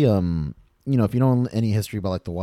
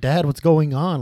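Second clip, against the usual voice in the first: put-on higher, worried little kid asking his dad; scared child calling to dad; young kid voice; 8 semitones higher, 4 dB louder, slower than usual. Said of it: "they're like".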